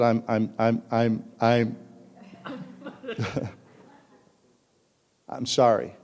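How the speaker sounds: halting, stammered mock apology; sheepish. Husband walks in to apologize to his wife, sheepishly. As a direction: struggle to get the apology out. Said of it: "I walk in the door sheepishly".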